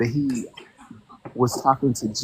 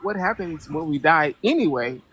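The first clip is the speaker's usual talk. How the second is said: exasperated challenge; 3 semitones higher than usual. Retold or imitated. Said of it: "And I'm like".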